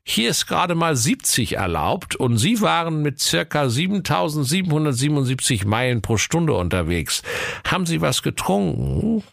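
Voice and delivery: high put-on policeman voice; stern traffic cop. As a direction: play the officer checking a speeder. Police officer at traffic stop.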